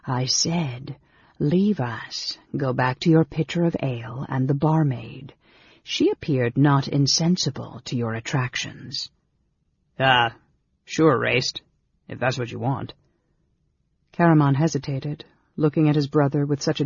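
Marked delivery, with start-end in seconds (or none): 0.0-9.1 measured, cutting order with pauses; sneering dismissal. Acted. Mage sending brother back to the barmaid, sneering dismissal. 10.0-12.9 hesitant, lightly voiced big fellow; startled big brother. Brother yielding to dismissal, startled. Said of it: "The big man looked startled".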